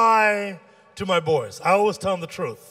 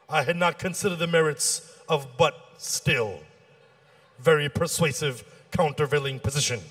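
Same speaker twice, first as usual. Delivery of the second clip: mock concession; 5 semitones lower, 3 dB quieter than usual. Mock concession to a weak argument.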